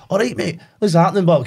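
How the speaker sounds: lightly done chirpy Scottish greeting; a hint of broad Scottish. A light Scottish voice for the game's shanty singer. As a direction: greet him with a cheery Scottish lilt. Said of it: "he's like".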